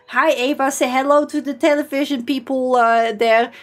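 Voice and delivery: lightly mimicked Dutch-accented English; a touch of Dutch accent on a phone greeting. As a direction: imitate a Dutchman speaking careful English. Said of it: "doesn't help his Dutch accent either".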